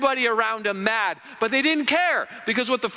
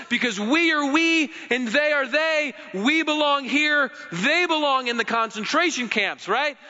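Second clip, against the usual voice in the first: mock zealous conformist; 5 semitones higher than usual. Voicing Nazi-era conformists.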